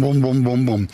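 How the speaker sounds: low rhythmic thuds; imitated bus boom. Resident telling what woke him at quarter to six, thudding booms. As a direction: mimic the thumping, boom after boom. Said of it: "because of that boom".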